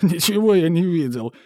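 high, loud whine; mock whimpering denial. A narrator's reading. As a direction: whine it like a beaten man. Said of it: "прохныкал управляющий".

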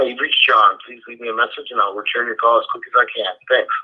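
usual speaking voice

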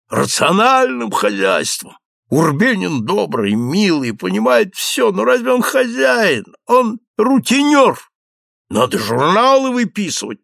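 excited, tipsy count pleading with his friend. A narrator's reading. Граф говорит пьяно, восторженно. (восторженный подвыпивший граф)

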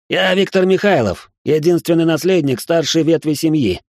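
high, irritated proclamation; irritated bark. A narrator's reading. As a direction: bark his name and title, annoyed. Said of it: "раздражённо рявкнул парень".

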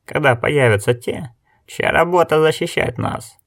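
rising, incredulous protest; indignant. Acted. Elder asks who will protect the village, indignant. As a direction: let the pitch climb in exasperation. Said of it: "возмутился Гетц".

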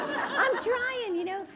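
squeaky defensive protest; flustered. Retold or imitated. Mother answering her daughter about the alarm, flustered high laugh. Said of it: "I'm like".

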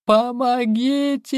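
very high, drawn-out scream; screaming for help. A narrator's reading. Wife screams for help against her husband. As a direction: cry out for help as if in danger. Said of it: "завопила Джоанна".

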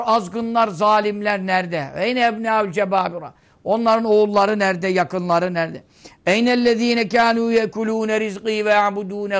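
ringing divine challenge; sustained, declaimed roll call; solemn preaching proclamation. Acted. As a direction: summon the tyrants to answer, question after question. Proclaims God's questions to the dead.

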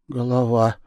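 usual speaking voice

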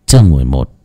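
ordinary delivery

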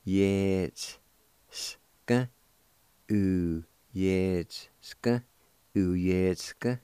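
Uyetsk said with a clear y-e glide and ts sound; careful pronunciation. Shown as a demonstration. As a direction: spell out Uyetsk slowly, y-e then ts. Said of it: "You can pronounce the T S sound with a Y E like this".

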